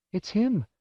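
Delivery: high-pitched, emotional wife; insistent mother. A narrator's reading. Wife insists it's her lost son.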